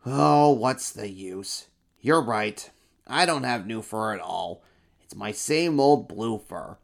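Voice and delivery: sighing emperor. Acted. Emperor admits to the monsters he lied. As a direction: give up with a sigh. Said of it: "the emperor sighed".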